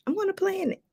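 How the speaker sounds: whispered aside; hushed, just for the listener. Real, not acted. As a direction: drop to a breathy secret whisper. Whispered aside after planning talk.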